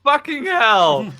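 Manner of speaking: slow, loud outburst; loud exclamation. Real, not acted. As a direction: drag out the curse loudly. Reacting to friend's joke.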